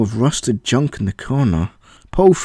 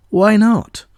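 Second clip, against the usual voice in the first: much higher, louder innocent ask; innocent question; 9 semitones higher, 4 dB louder than usual. Acted. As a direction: play dumb. AI teasing Paul.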